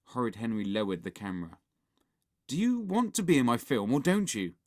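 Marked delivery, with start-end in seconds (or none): 2.5-4.6 hiss. A narrator's reading. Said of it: "he hissed".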